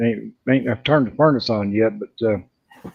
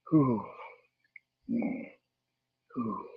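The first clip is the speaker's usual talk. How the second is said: breathless whew; 3 semitones lower, 16 dB quieter than usual. Real, not acted. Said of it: "give me time to get my breath".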